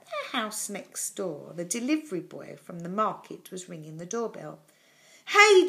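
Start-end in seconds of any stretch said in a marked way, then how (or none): 5.2-5.7 high, loud call across a hedge; yelling. A narrator's reading. Jonathan hails the delivery boy next door, yelling. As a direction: yell to get a neighbour's attention. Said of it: "Jonathan yelled across the hedge".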